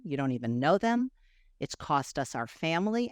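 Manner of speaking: measured, understated earnest confession; subdued, heartfelt thanks and apology; retold sincere apology. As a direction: own up gravely, pausing between phrases. Retells heartfelt apology to father-in-law.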